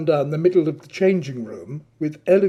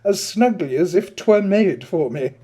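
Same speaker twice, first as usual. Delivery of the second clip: foppish Adrian; 3 semitones higher, 4 dB louder than usual. Acted. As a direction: purr the flattery like a vain aesthete. Narrator voices foppish Adrian.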